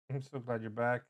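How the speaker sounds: soft and tender, almost hushed. Acted. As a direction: say it softly with relief. Reunion, character speaking tenderly.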